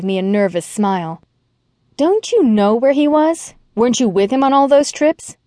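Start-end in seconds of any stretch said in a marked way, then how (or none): 2.0-5.4 higher, rising disbelief; surprised questioning. Acted. Young woman quizzing the ex-wife, surprised. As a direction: sound genuinely puzzled.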